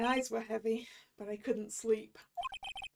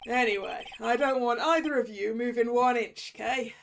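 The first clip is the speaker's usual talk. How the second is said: stern detective; 6 dB louder than usual. Acted. Detective orders them to stay.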